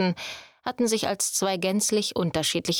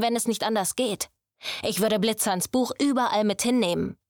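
lightly voiced young master, scolding; a hint of a strict teacher pressing the point; stern mentor; 2 semitones higher than usual. Luca scolds the apprentice Quinn, stern and pressing.

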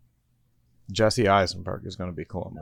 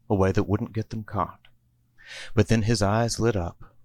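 sing-song Christmas rhyme reading; a cozy holiday storybook narrator; storybook poem narration. A narrator's reading. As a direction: read it like a bedtime Christmas poem. Narrator reads rhyming Christmas poem.

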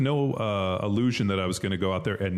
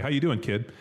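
casual higher-pitched coach hello; coach's greeting; 6 semitones higher than usual. Retold or imitated. Coach checking in on a player, casual greeting.

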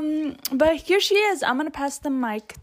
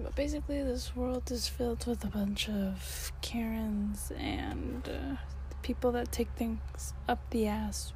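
whisper; 7 dB quieter than usual. Real, not acted. Lowers voice to an aside.

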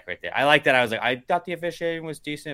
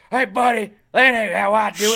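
loud, high mock Southern accent; 8 semitones higher, 8 dB louder than usual. Making fun of the co-host's Americans, hammed-up Southern accent. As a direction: ham up an indignant Southern accent. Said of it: "Southern accent whenever I do Americans".

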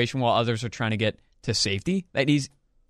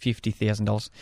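a lightly done Australian accent; 2 semitones lower than usual. Shown as a demonstration. Showing his best Australian accent to his cohost, mock Australian. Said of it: "Wanna hear my best Australian accent?".

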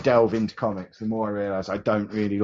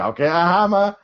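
mock shout; 9 semitones higher, 6 dB louder than usual. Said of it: "She's shouting".

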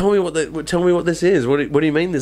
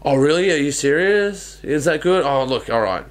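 mock disbelief; 6 semitones higher than usual. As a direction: act amazed and grateful, pitch lifted. Acting relieved producer with guard.

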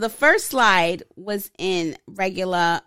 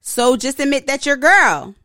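louder, mock yell of a text in capitals; caps as a mock yell; 4 semitones higher, 6 dB louder than usual. Shown as a demonstration. Reading his girlfriend's all-caps text to the co-host, mock yell. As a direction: read her all-caps text like a shout. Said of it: "replies back in all capitals".

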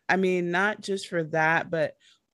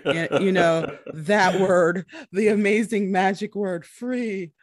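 playful hype; 7 dB louder than usual. Real, not acted. Teasing about the magic word.

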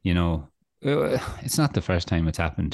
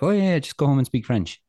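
mock chirpy clerk; 9 semitones higher than usual. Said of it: "And they're like".

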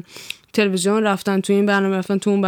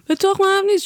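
defiant; 10 semitones higher, faster than usual. Real, not acted. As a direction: toss it off defiantly. Repeats dismissal, pitch jumps.

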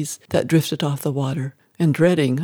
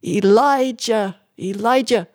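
drawn-out, higher-pitched call for help; restrained scream; 5 semitones higher, slower than usual. A narrator's reading. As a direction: call out desperately, short of a full scream.

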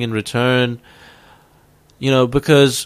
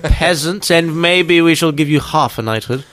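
mock royal highness. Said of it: "fucking highness".

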